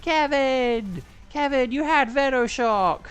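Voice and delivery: high, loud, stretched cries of dismay; high-pitched anguished yelling; outraged shout. Real, not acted. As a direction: wail at Kevin for ruining the turn. Outraged at teammate Kevin's move.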